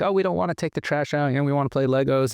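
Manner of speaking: a child begging to keep playing Legos; whiny kids. Kids whining to mom about the trash, mock whine. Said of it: "and we're like".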